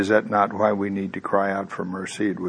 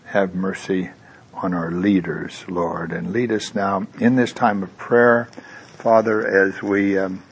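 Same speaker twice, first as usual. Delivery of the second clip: 1 prayer. Acted. Leads into prayer.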